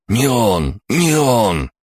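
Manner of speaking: high, panicked denial; squealing. A narrator's reading. Captive Шор denies it to his attacker, squealing. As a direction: squeal it out in two pleading bursts. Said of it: "заверещал Шор".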